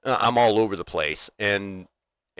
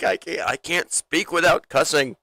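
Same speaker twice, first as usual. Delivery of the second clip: higher mock courtroom plea; Ricky; 6 semitones higher than usual. TV character explaining himself in court, mock-pleading. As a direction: imitate a defendant's helpless protest. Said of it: "He's like".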